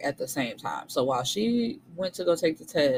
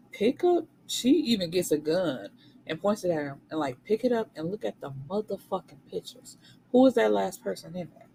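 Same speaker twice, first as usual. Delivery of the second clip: angry command; 3 semitones higher than usual. Retold or imitated. Holding her husband at gunpoint, seething command. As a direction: force him to look, seething.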